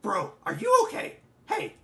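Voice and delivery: high panicked yell; panicked shout. Acted. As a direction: cry out in alarm. Karkat finds friend hurt.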